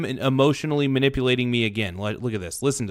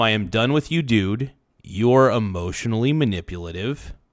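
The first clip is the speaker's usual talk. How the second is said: usual speaking voice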